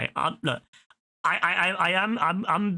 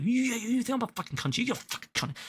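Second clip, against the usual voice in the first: mock outrage; 9 semitones higher, 4 dB quieter than usual. Imagined shouting match with AI.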